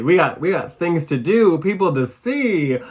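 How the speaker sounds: busy Michigander in a rush; hurried and excited. Real, not acted. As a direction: rattle it off like you're in a hurry. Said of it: "go, go, go".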